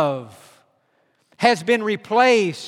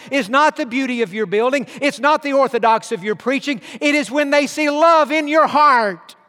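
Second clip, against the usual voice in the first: quoting Jesus; 3 semitones higher than usual. Retold or imitated. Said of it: "Jesus said".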